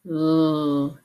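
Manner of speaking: l as a long held "lll", not "el"; isolated consonant sound. Shown as a demonstration. Teacher naming the sound to delete, l said as a drawn-out "lll". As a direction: hold the l sound alone. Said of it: "which sound to delete".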